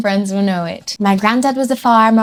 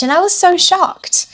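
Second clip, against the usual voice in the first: shocked; 8 semitones higher than usual. Retold or imitated. Recalling shock at Scottish accent.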